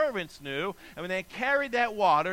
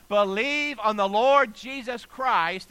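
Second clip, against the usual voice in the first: slow, loud, raised proclamation; crying out; 4 semitones higher, 6 dB louder, slower than usual. Acted. Paul and Silas answer the jailer, crying out. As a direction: proclaim it loudly, drawing out the words. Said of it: "cried out".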